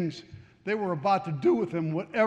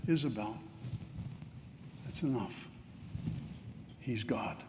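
gentle Spirit voice; 6 semitones lower, 12 dB quieter than usual. Retold or imitated. Voicing the Holy Spirit gently.

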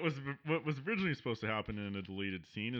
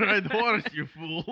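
silly character voice; 6 semitones higher, 8 dB louder than usual. Pretend.

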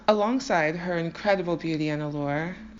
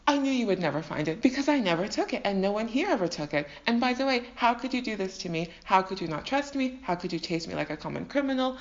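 hammed-up wounded tirade; dramatic show. Jacob berating Laban for distrusting him, mock-dramatic outrage. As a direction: play the victim, theatrically aggrieved. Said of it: "put on his own dramatic show".

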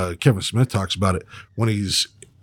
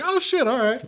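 shocked. Retold or imitated. Stunned reaction quote.

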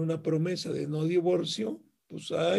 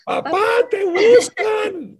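put-on child shouting for dad, high and slow; yelling across the room; 11 dB louder, slower than usual. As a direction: call out loud to the next room. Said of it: "le pega un grito desde la puerta".

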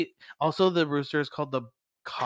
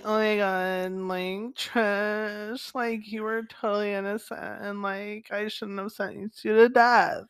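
campy judge; 4 semitones higher, slower than usual. Retold or imitated. Judge apologizes, same camp voice.

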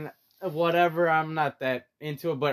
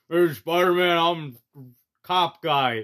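Taurus guy voice; 5 dB louder, slower than usual. Retold or imitated. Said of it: "that's how he talks".

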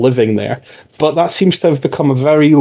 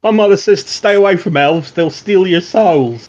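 put-on lightly raised, curious boy's voice; a hint of a chatty street kid; young boy Eugene; 5 semitones higher than usual. GM as boy Eugene, chatting up the Watch, lightly boyish. Eugene warns about elves.

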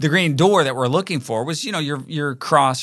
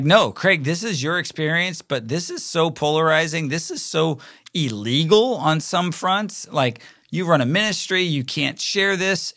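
higher-pitched, emphatic mock protest; retold firm objection; 4 semitones higher than usual. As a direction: quote alarmed colleagues refusing outright. Board firmly objects to posting.

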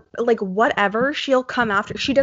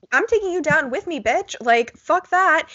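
1 defiant mock threat; 6 semitones higher than usual.

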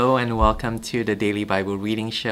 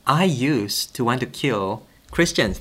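higher, louder, fast pleading; urgent Paul; 5 semitones higher, 5 dB louder than usual. Retold or imitated. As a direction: rush to win the crowd over. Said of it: "Paul is almost saying".

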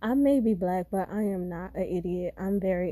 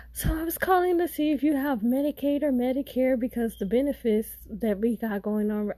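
mock scammer sales pitch; 4 semitones higher than usual. Imitating phone scammer pitch.

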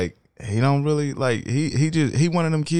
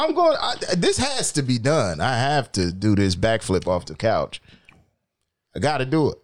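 mock stubborn kid. Voicing the son's stubbornness.

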